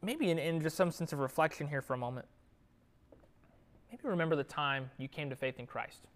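quiet reflection. Acted. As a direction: lead the congregation gently back to that moment.

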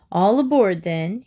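lightly acted call to passengers; a touch of a conductor's shout; mild shout. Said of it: "he shouted".

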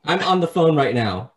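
high sassy phone voice; sassy receptionist. Retold or imitated. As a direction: brush off the customer, back to gossip.

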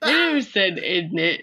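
half laughing through the words; talking through giggles. Real, not acted. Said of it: "laughing while talking".

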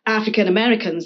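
a British speaker's weak attempt at an American accent on "African Americans"; terrible American accent. Shown as a demonstration. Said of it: "That's my terrible American accent".

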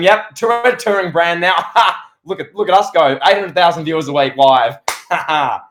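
cocky gloat broken by little laughs. Retold or imitated. Voicing WWE gloating, laughing.

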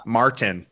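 "Martin" said the American way, R sounded; "Martin" in an American accent; American pronunciation. Shown as a demonstration. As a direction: say "Martin" with a full American R and crisp T. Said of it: "the American pronunciation".

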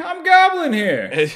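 high, slow yelling Newark-style; loud yell. Shown as a demonstration. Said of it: "I just yelled real loud".

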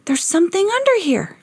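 usual speaking voice

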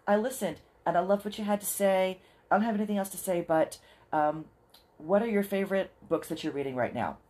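upbeat listener saying hello; cheery listener. Retold or imitated. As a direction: play an eager fan dropping by. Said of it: "jump over and say".

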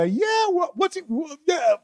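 high mock wrestler yell; mocking Sting's yell. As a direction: parody a wrestler's yelp. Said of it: "Mocking Sting's yell".

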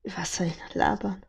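breathy whisper to himself. Real, not acted. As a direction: mutter it under your breath. Muttering to himself on stream.

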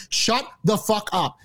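slow, word-by-word retort to the TV; slow, emphatic demand. Retold or imitated. Fed-up viewer telling off the commentators on TV, slow and emphatic. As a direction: drag out each word for emphasis. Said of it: "I literally said to my TV".

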